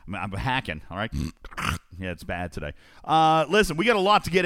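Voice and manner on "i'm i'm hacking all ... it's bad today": low, quiet and congested from a cold; real cold-medicine voice, low and subdued; sick with a cold. Real, not acted. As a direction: talk through allergies and a hacking cough. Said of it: "I'm on cold medicine".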